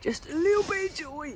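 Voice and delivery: high, soft, squeezed little voice; mock-meek, pinched delivery; tiny grudging allowance. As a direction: shrink it to a tiny squeak. Tiny allowance, acting English invader.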